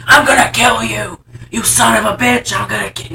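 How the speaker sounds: hammed-up movie threat; mock angry threat. Retelling the driver upset over spilled soda, mock angry threat. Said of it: "he does get very upset".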